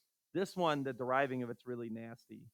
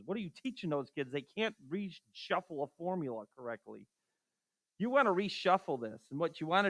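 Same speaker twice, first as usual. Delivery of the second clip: mildly mimicked complaint from an annoyed teacher; ticked-off science teacher. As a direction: imitate a peeved colleague without raising the voice. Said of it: "Science teachers get ticked at math teachers".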